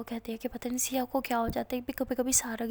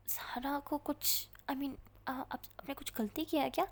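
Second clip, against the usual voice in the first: hesitant; 2 semitones higher, 6 dB quieter than usual. Acted. Hesitant awkward question.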